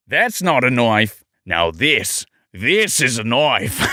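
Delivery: hammed-up Australian tough guy; slow, weighty Australian boast; Australian accent. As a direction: play up a broad Australian accent. Australian catchphrase skit, recording bloopers.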